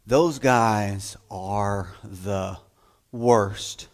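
put-on slow, low, knowing drawl about the boys; mock teacher to girls. Teacher warns the girls class about boys, slow and low. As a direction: drag it out in mock warning. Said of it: "they would say".

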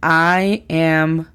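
"I am cooking" drawn out clearly; slow teacher quiz; slow model sentence. Shown as a demonstration. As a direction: say "I am cooking" very slowly. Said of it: "¿qué tal".

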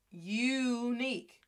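"unique" slowly as yoooo-NEEK; sounded-out English word. Shown as a demonstration. Teacher spelling unique for the class, drawn-out syllables. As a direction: stretch the first syllable of "unique".

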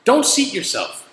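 DON'T hit high, then slow; emphatic scolding. Real, not acted. Restaurant worker scolding guests who seat themselves, emphatic. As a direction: punch "Don't" high, drawing out the command.

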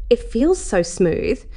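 choking voice. Acted. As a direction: let the words catch in the throat, drawn out. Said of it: "she asked in a choking voice".

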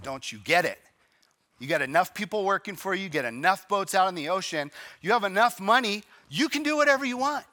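mock annoyance, climbing in pitch; annoyed. Busy man, annoyed at the content man, rising exasperation. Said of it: "rolled his eyes 'cause he was annoyed".

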